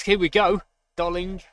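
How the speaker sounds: excited. Real, not acted. Late attack, hoping for winner.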